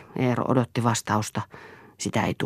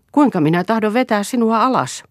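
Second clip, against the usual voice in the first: heated challenge; 10 semitones higher, 7 dB louder than usual. Acted. Eero angrily challenges Lea.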